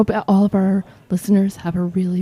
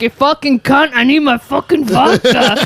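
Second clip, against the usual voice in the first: mock belligerent British accent, pitched up; hammed-up angry British voice; put-on British accent; 4 semitones higher than usual. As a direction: keep demanding as a fake Brit. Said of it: "I decided a British accent would make them serve me".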